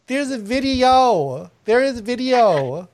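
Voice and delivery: slow, stretched-out emphasis on each repeat; exasperated insistence. Real, not acted. Host repeating that the proof exists, exasperated insistence. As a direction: hammer the point slowly, exasperated.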